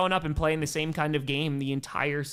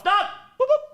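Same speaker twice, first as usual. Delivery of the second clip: high whooping cheer; thankful whoop; excited whoop; 6 dB louder than usual. Real, not acted. Cheering a donation.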